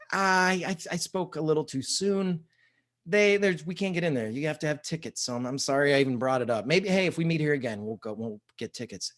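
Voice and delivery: hesitant, stammering sheepish apology. Retold or imitated. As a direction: back down sheepishly, stumbling over the start. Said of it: "kinda sheepishly".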